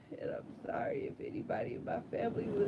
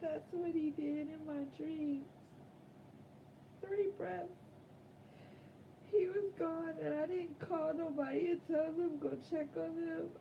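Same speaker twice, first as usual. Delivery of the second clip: quiet; 6 dB quieter than usual. Real, not acted. Quiet grieving confession.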